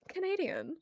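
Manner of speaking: the word Canadian in a light, put-on Canadian accent. Shown as a demonstration. Streamer tries a Canadian accent for chat, light Canadian accent. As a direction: say Canadian like a Canadian, high and playful. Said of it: "pronounce any other word in a Canadian accent".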